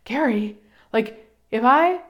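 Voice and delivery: mock fretful plea, slowing at the end; retold worried self. Pleading with Gary at the microphone, mock fretful. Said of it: "because I just said".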